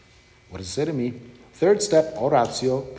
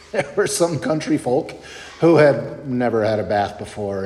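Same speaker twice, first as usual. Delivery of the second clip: chuckling through the words; amused, laughing; 5 dB louder than usual. Real, not acted. Son retelling dad's boot camp story, amused and laughing. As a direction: let a laugh bubble into the telling.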